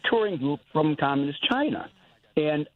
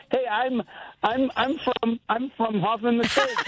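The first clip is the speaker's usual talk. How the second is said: a hint of a big guy's voice, higher, slow; imitating Jim's voice; 6 semitones higher, slower than usual. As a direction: lightly mimic the burly guy introducing himself. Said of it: "Jim's got that voice".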